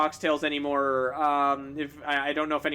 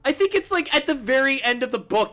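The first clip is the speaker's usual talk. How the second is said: lightly put-on, over-the-top French accent, higher; a slipping, hammed-up French accent; bad French accent; 9 semitones higher, 6 dB louder than usual. Streamer reading chat in a bad French accent. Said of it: "bad, debatably offensive French accent".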